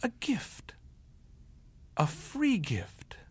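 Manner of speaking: breathy whisper, slow on free gift; whispered wonder. A narrator's reading. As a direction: whisper it to yourself in awe. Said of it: "he said it again".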